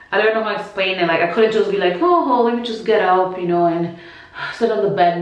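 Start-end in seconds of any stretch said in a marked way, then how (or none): 2.0-5.2 breezy. Shown as a demonstration. What she could not do, a breezy quick getting up. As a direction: toss it off as if getting up is easy. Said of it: "No, it was kinda like".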